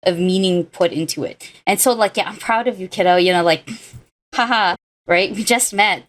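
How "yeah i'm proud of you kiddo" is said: mock a breezy throwaway compliment; breezy subtitle-style pat on the head; flippant casual. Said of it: "does not hit the same way".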